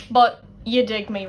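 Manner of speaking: But punched loud, you dig me tossed off; a loud knowing But, then you dig me; stress on But. Shown as a demonstration. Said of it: "See what I did there".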